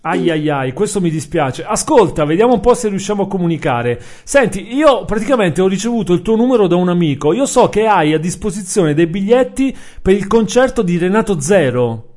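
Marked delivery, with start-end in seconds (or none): 1.6-12.1 louder. Real, not acted. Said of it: "faccio fatica a sentirti".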